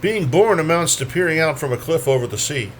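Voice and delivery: measured poem recital, each phrase lifted then let fall; poetry reading. Acted. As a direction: read it as verse, pausing at line breaks. Reads poems aloud at a poetry reading.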